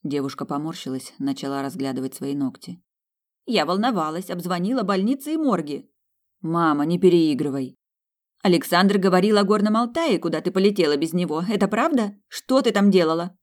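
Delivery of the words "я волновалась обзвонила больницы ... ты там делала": high, loud worried mother; scolding mother. Acted. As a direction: fret and demand answers loudly. Mother scolds daughter by phone.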